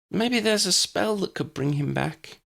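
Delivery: put-on high, small child's voice; a little girl's hopeful plea; girl hoping for a spell for her cat, tiny voice. A narrator's reading. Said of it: "in a tiny voice".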